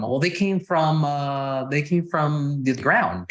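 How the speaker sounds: slow, drawn-out deadpan; string them along, slowly; teasing slow-motion reply; mock earnest answer. Teasing a nosy questioner.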